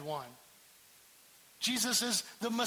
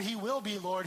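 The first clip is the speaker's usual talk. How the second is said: ordinary delivery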